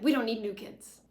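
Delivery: loud dismissive snap; angry Paris. Retold or imitated. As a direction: shut the door on the new girl. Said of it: "Paris is all mad".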